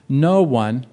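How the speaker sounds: "No one" hit hard and loud; stress on no one. Shown as a demonstration. Preacher stressing "No one" to his congregation. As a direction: lean on "No one" to make it absolute. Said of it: "I want you to see how absolute this is".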